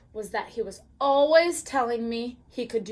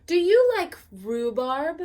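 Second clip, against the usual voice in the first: cooing; 5 semitones higher, 5 dB louder than usual. Acted. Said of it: "I cooed".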